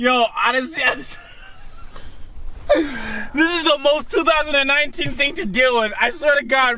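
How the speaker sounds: high voice, laughing through the words.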